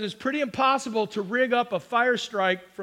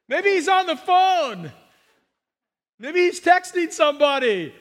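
mocking taunt; 4 semitones higher, 3 dB louder than usual. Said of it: "taunt them".

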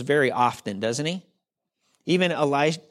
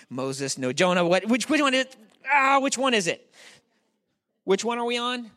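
higher-pitched, flustered groping for the right name; flustered searching; 5 semitones higher than usual. Real, not acted. Pastor losing track of his sermon's character, flustered. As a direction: trip over yourself trying to remember.

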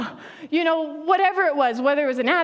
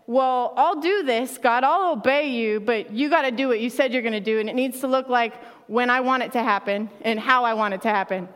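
demanding believer. Retold or imitated. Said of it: "Conditional obedience says".

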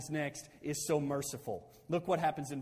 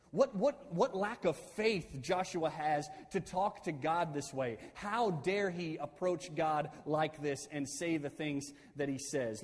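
indignant critics. Retold or imitated. Commentators picking Joshua apart, indignant. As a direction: imitate outraged critics, slowing on the challenge. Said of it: "just pick Joshua apart".

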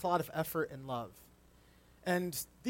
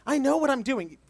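higher, louder mock defiant child; defensive kid; 8 semitones higher, 7 dB louder than usual. Kids brushing off a parent's correction, mock defiant. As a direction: throw it back like a stubborn kid. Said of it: "This moment of, like".

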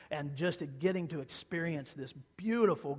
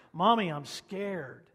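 put-on scared child; 3 semitones higher, 6 dB louder, slower than usual. Child calling from across hall.

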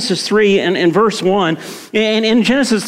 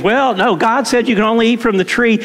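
Eve answering; 4 semitones higher than usual. Retold or imitated. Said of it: "and she says".

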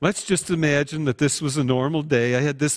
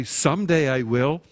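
quick brush-off. Acted. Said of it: "maybe you're quick to say".

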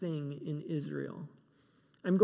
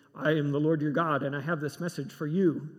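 grand announcement; 2 semitones lower, 5 dB louder than usual. Pretend. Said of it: "the Lord doesn't mess around saying".

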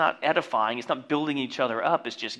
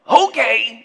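high, loud "Okay!" yelled like a hype man; hype-man shout; 9 semitones higher, 11 dB louder than usual. Retold or imitated. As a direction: bark it to the party crowd. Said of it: "And then followed by".

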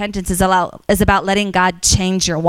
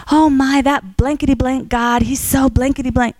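excited swearing; 4 semitones higher than usual. Retold or imitated. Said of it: "she just kept swearing and going on".

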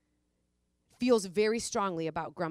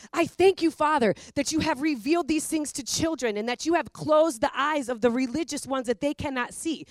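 joyful praise; 5 semitones higher than usual. Retold or imitated. Preacher voices Jesus thanking the Father, joyful and raised. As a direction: lift it up like a burst of joyful praise. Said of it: "breaks out in joyful song".

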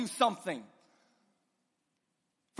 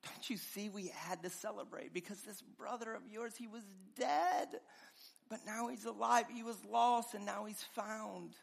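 pleading father; 3 semitones lower, 13 dB quieter than usual. Acted. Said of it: "the father pleads with him".

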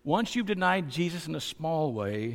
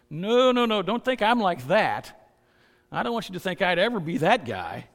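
mock protest; 3 semitones higher, 5 dB louder than usual.

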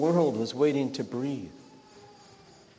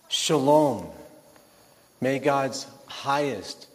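measured, assured fatherly prayer; quiet, sure blessing. Acted. Father prays over his troubled son, quietly but surely. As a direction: bless him slowly, with quiet certainty. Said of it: "quietly but surely".

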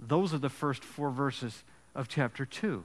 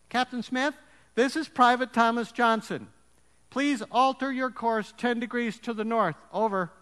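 private on radio; 7 semitones higher, 4 dB louder than usual. Acted.

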